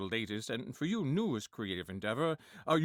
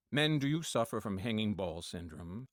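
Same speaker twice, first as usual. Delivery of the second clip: mock ad announcer; 5 semitones lower than usual.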